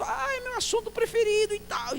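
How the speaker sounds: very high, thrilled old man imitation; old deaf pastor. Old pastor on his favourite subject, high excited voice. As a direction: gush in a high old man's voice. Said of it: "a conversa foi empolgada".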